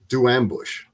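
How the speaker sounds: terse order from a German instructor; German accent. Retold or imitated. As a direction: give the order with a hint of German. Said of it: "in his German accent".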